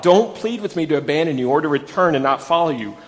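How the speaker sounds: earnest scripture reading, building on Wherever; solemn Bible reading voice. Acted. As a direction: read Ruth's vow from the pulpit with rising fervour. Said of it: "but Ruth replied".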